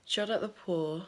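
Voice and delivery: breathless after running upstairs; puffing between words; out of breath. Real, not acted. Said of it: "Sorry, I'm out of breath".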